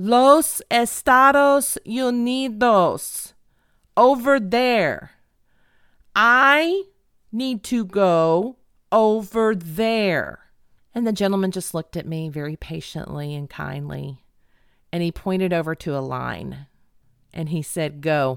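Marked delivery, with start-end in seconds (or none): 0.0-10.4 play-acted loud, very slow, deliberate word-by-word speech. Retelling asking a gentleman where to go: retelling talking loud and slow. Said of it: "I'm talking very loud and slowly to this poor gentleman".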